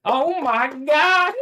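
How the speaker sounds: high, slow, drawn-out oh my God; squealing, stretched-out disbelief; stunned gasp. Retold or imitated. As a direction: act out being floored by what you just heard. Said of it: "and I'm like".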